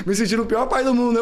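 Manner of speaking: laughing. Real, not acted. Laughing at his own despair.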